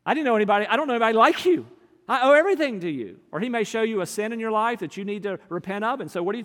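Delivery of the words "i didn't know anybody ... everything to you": fervent prayer. Retold or imitated. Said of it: "what do I say to God".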